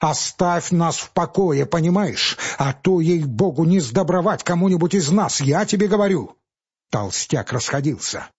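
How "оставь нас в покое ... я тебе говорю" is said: last desperate plea rising in pitch; in despair. Acted. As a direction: beg and threaten at once. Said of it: "заговорил Павел с отчаянием".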